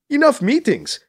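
high, eager outburst; rally everyone to leave; exclaiming. A narrator's reading. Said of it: "Krish exclaims".

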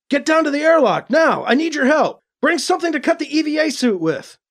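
high-pitched emergency orders; urgent call. A narrator's reading. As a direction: call desperately for help over the comm. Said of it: "Alibi called over the comm".

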